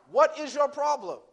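loud, high scolding question; exasperated father. Retold or imitated. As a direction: act out a dad losing patience. Exasperated father confronts crying daughter.

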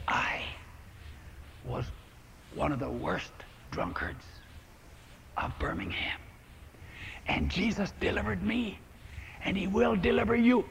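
hushed, soft and tender; soft confiding voice, near a whisper; very softly. Retold or imitated. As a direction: speak softly to someone hurting. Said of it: "Very softly".

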